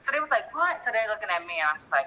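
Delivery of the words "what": mock shocked what. Family surprised together.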